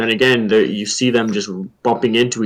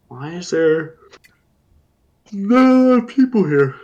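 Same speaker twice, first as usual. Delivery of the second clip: baffled quote; 7 semitones higher than usual. Retold or imitated. Acts out own puzzled reaction.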